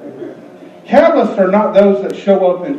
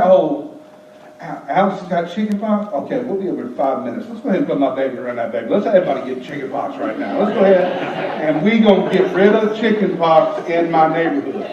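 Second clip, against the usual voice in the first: quoting a neighbor; 5 semitones lower, 4 dB quieter than usual. Retold or imitated. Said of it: "somebody said".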